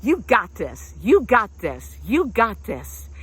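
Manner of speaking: steady repeated encouragement; a coach's repeated pep talk; encouraging mantra. Shown as a demonstration. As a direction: say it to yourself with belief. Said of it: "you just say it over and over".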